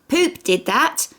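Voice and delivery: put-on high, slow, pleased little kid; proud and giggly, like a toddler telling tales; smiling small boy. Cheese points out the smear to brother, high and smiling. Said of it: "Cheese smiled".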